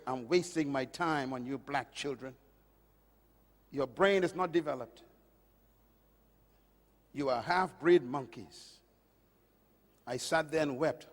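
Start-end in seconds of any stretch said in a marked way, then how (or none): 0.1-8.7 cold teacher's words. Retold or imitated. Preacher recalls teacher's insult, low and quiet. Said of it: "he said these words".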